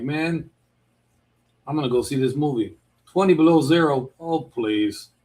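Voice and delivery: mildly mocking, brushing off the cold; dismissive scoff. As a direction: act out a breezy "so what". Acts out shrugging off the cold.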